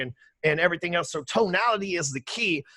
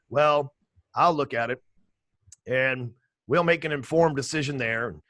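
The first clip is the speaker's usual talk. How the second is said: mock dull CPA, lower; monotone accountant; 4 semitones lower than usual. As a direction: drone it like a bored accountant. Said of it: "that's how they typically talk to you".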